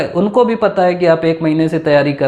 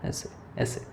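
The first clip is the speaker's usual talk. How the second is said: whispered aside; 19 dB quieter than usual. Shown as a demonstration. Shows looking around at the panel.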